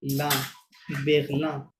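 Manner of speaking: "লা" alone, then joined as "বেগলা"; L plus A. Shown as a demonstration. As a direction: model French "বেগলা" ending on open ah. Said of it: "এল add করলে কি হবে?". ("লা" আলাদা বলে "বেগলা")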